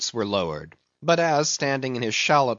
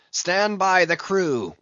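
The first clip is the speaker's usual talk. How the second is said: high, slow drawn-out call; cried command; 6 semitones higher, slower than usual. A narrator's reading. Captain tosses mate's arm away and calls the crew, cried command. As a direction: call the order out to all hands. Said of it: "cried Ahab".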